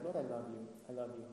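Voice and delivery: "Lord, I love you" murmured softly under the breath; soft, private "I love you"; quietly under your breath. Shown as a demonstration. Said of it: "say it quietly under your breath".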